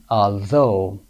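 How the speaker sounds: "Although" ending in OH, as in phone; OUGH as long O. Shown as a demonstration. Teacher shows learners the OUGH sound, long O. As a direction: model "Although" with silent GH and long O. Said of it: "صدای او یو جی اچ ما صدای او گرفته".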